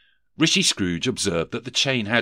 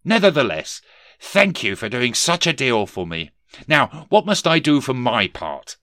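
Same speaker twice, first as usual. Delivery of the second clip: raised, eager polite voice; earnest Scrooge; 5 semitones higher, 5 dB louder than usual. Acted. Scrooge asks the ghost what to do, raised and eager. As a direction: press on politely, voice lifted.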